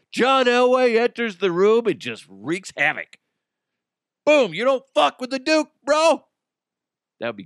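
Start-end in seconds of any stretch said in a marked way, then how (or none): 0.1-6.3 higher and louder pumped-up announcing; hyped trailer voice. Pretend. Host pitching a fake action scene, in a loud hyped voice. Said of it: "hyped trailer voice".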